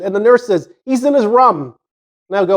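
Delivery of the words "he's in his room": "rum" for room, imitating the nurse's higher voice; imitated regional "rum", short vowel for room. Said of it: "You mean room, right?".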